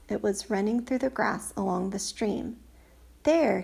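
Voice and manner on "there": louder, higher exclamation; crying out. Acted. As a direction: cry out pointing. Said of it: "he cried".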